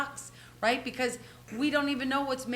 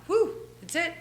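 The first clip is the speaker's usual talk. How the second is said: relieved excitement; 4 semitones higher, 4 dB louder than usual. Retold or imitated. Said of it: "And I'm like".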